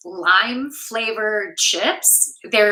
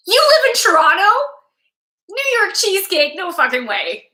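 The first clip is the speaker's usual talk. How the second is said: surprised; 9 semitones higher, 3 dB louder than usual. Real, not acted. Reacting to viewer's comment.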